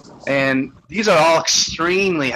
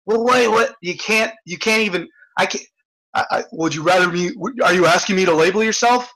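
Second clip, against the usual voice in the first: mock defensive; 3 semitones higher than usual. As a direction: play him as caught out and defensive. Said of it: "You get all defensive".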